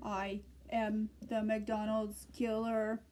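robot voice. Pretend. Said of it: "I am a robot now".

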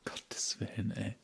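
breathy whisper under the breath; whispered dismay. Real, not acted. Speaker reacting to the crisis, whispered dismay. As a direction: hush it out in disbelief. Muttered aside in shock.

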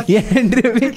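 amused, laughing through the words; real laugh breaking into the line; laughing tease. Real, not acted. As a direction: tease a friend while chuckling.

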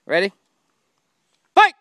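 loud arcade announcer call; booming fighting game announcer. Pretend. Mimics the fighting game round call.

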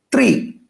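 "ত্রি" blended into one syllable, pitched high; broken down by sound. Shown as a demonstration. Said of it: "উচ্চারণ অনুসারে ভাঙি".

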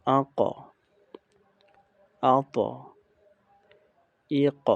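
আক, আত, ইক with a heavy bounced ending; upward articulation. Shown as a demonstration. Teacher models sounds for students, upward echoing bounce. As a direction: echo the last consonant of আক, আত, ইক upward. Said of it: "উচ্চারণটা আমাদের উপরের দিক চলে যাবে".

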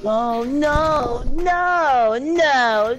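drawn-out moaning string of no's; unintentionally suggestive moaning; sexual-sounding. Real, not acted. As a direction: wail each no, long and sliding. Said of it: "Sounds sexual when you say it".

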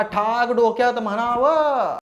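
ठाक डोक्यात म्हणावं dragged out slowly; mocking drawl. Vlogger mocking Tanvi with her own catchphrase, slow drawl. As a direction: savour the jab word by word, slowly.

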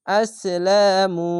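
আসলামু with the মু held one alif long; slow recitation of আসলামু, vowel held; stretched vowel. Shown as a demonstration. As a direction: draw out the মু of আসলামু. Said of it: "এক আলিফ টেনে পড়বেন".

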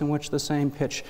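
reiterate one pitch in a monotone; demonstrating a sad monotone. Shown as a demonstration. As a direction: keep pitch movements very small. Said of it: "you tend to have more of a monotone voice".

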